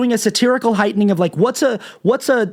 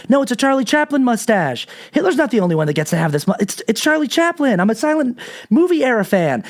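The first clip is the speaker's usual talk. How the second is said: higher, hurried innocent excuse; defensive excuse; 6 semitones higher than usual. Retold or imitated. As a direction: play innocent, a bit too eagerly. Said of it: "He explains".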